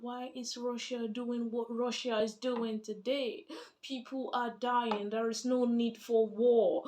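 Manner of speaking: slow, drawn-out mimicked complaint; imitation de plaintes. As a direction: recite others' objections slowly, word by word. Mimics people complaining about the war.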